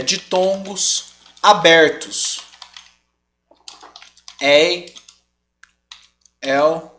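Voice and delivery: slow, word-by-word dictation with long pauses; measured exam-question readout. Shown as a demonstration. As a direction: spell out the rule slowly, piece by piece. Dictating a possible exam wording.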